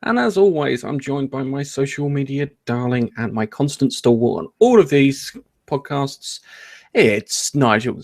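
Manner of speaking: grand show host intro; announcer intro. Acted. Podcast host opening the show.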